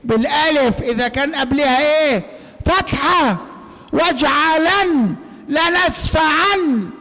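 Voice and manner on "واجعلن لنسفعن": slow, high واجعلن لنسفعن, each ending on a ringing ن; final alif as nun. Shown as a demonstration. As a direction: stretch both words, closing each on n. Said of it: "أنت بتنطقها إيه؟". (واجعلن لنسفعن بنطق الألف نون)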